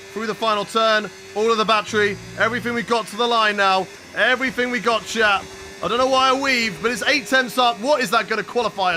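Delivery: urgent rising excitement; excited. Real, not acted. Streamer urging the car across the line, excited. Pushing final corner.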